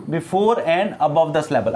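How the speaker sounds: slow, deliberate before and above the slabble; slow dictation. Shown as a demonstration. Teacher dictating the rule slowly to students.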